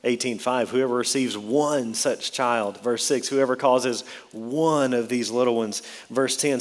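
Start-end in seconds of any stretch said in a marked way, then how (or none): 0.7-2.8 "one" drawn out slowly; stress on one. Shown as a demonstration. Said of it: "Notice the emphasis on that word one". 3.3-5.8 "one" set apart and stressed. Shown as a demonstration. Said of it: "Notice the emphasis on that word one".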